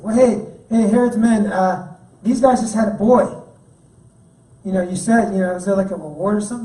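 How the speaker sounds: lightly voiced snitching neighbor; eager informer. Neighbor tipping off Herod's men.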